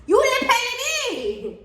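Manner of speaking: high, slow, laughing outrage; outraged laugh at the boss; laughing disbelief. Real, not acted. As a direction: drag it out through a laugh. Ranting about unpaid wages.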